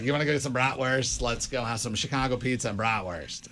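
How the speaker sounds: put-on half-sure stab at a Chicago accent; mock a Chicago accent, loosely; joking Chicago accent, not quite nailed; imitated Chicago accent. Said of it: "don't even know exactly how it goes".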